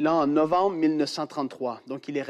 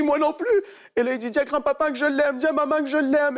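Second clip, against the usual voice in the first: tender farewell; 11 semitones higher than usual. Retold or imitated. Boy's farewell messages.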